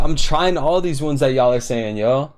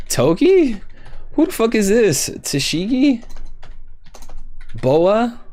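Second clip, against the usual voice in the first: exasperated high-pitched guessing; 8 semitones higher than usual. Real, not acted. Frantic guessing at a stumper.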